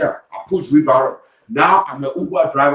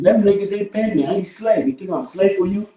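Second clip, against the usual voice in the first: higher-pitched indignant comeback; retold angry retort; 5 semitones higher than usual. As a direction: argue back, pitch raised in protest. Acted quarrel with the manager.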